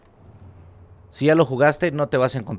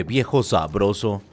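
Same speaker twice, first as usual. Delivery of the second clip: slow, lower, lightly voiced Ellie; 5 semitones lower, slower than usual. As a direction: drawl it like the girl character. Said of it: "Y de repente Eli dice".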